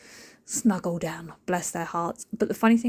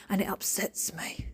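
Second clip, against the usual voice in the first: whispered upset; 7 dB quieter than usual. Real, not acted. Quietly confessing her annoyance.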